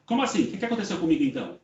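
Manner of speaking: quick, mildly alarmed questioning; startled question. Retold or imitated. Spirit asks the helper what happened to her, bewildered.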